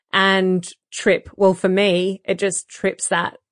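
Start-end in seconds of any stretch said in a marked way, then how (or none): none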